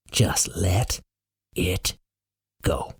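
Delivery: soft, word by word, with pauses; hushed and drawn out, guiding gently; calm whisper. A narrator's reading. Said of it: "speaking in a calm whisper".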